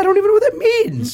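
laughing. Real, not acted. Laughing disbelief.

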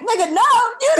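high, laughing protest; cracking up while blaming a friend. Real, not acted. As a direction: blurt it out through laughter. Laughing while retelling the accusation.

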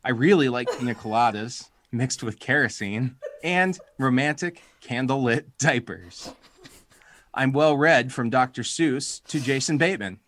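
hammed-up announcer read of a dating ad; podcast voice. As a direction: read it like a cheesy personal ad. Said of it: "I'm gonna get my podcast voice on here".

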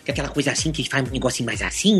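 low quiet voice. Shown as a demonstration. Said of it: "Ele tem aquela voz mais baixa".

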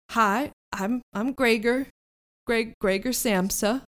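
put-on southern accent. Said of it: "the only one with a southern accent".

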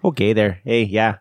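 mock Fargo Midwestern accent; playful upper-Midwest Fargo lilt. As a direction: answer in folksy put-on Fargo. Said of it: "how do they talk in Fargo?".

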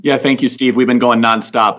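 hoarse, worn-out voice; voice giving out. Real, not acted. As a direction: voice going from overuse. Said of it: "if it sounds like I'm losing my voice".

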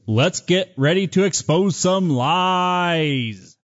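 big circus announcer build-up; ringmaster. Acted. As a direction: call it out like a ringmaster. Showman opening the show.

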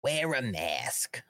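a hint of a slow, earnest health official, fading to a whisper; mock public health warning, slow and hushed at the end; lightly voiced Fauci. Vlogger mocking Fauci's mask advice to viewers, in a slow lightly put-on official voice. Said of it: "I can't do Fauci. I don't do impressions".

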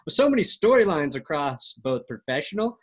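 upbeat sponsor read. Acted. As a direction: sell it like a radio spot. Sponsor ad read mid-podcast.

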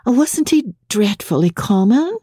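lightly voiced young wife, coldly asking; cold question. A narrator's reading. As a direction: lift the pitch, keep it cool and dismissive. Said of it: "she questioned coldly".

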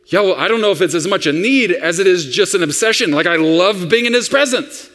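lightly voiced eager kid; a hint of a little boy's enthusiasm. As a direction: gush like a keen little boy, in one run. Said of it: "That's how a little boy talks".

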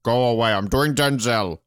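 hammed-up Scottish actor refusal; mock-serious film-star impression; put-on reluctant star. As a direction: wave off a kiss in a mock burr. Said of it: "anti-kissing Catherine".

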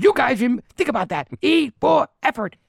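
high, loud mock shout, slowing on the last line; retold yell. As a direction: throw it back over your shoulder as you storm off. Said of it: "And he goes".

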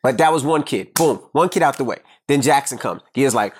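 ordinary delivery

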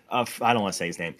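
ordinary talk, nothing marked

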